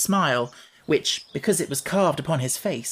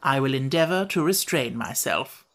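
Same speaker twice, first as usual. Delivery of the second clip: humble voice. Acted. Wogglebug to the party, mildly humble. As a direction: say it meekly, understated. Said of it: "said in a humble voice".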